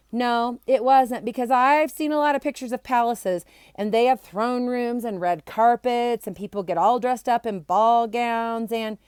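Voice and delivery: insistent. Acted. Barry arguing insistently.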